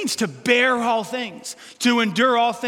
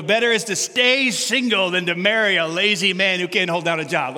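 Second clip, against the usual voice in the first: mock Bible verse; 2 semitones lower than usual. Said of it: "it would say something like this".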